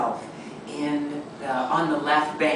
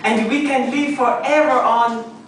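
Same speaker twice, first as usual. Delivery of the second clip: lightly voiced Sophie; 7 semitones higher, 6 dB louder than usual. Sophie speaking in character.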